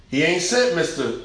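normal talking voice

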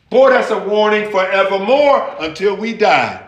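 ordinary delivery

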